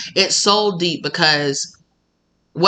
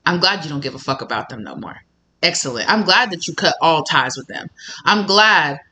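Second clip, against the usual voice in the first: pleased spirit guide. Retold or imitated. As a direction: purr your approval like a spirit guide. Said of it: "things that work with you is like".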